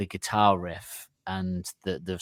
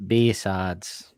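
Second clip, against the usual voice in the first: northern accent. Shown as a demonstration. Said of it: "in a northern accent".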